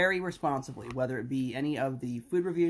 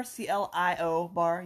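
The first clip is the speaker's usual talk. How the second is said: spelled out slowly; 3 semitones higher, slower than usual. Shown as a demonstration. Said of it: "You can pronounce it any way you wish".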